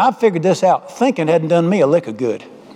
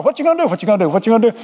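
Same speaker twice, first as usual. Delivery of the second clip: whole tire choir; 3 semitones higher, much faster than usual. Acted. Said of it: "they had a whole choir".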